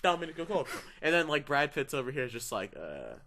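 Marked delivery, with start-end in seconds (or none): 0.0-0.7 hammed-up bad Italian accent; fake Italian. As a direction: say it like a clumsy tourist Italian. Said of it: "doesn't speak any Italian".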